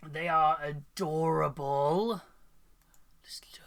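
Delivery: awed whisper. Real, not acted. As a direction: whisper it in awe. Whispering over cute cat.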